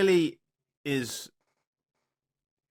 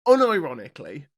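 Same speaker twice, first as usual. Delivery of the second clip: louder "Unironically" with a rising tune; stress on unironically; 7 dB louder than usual. Shown as a demonstration. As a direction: land hard on "Unironically". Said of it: "he starts this with unironically".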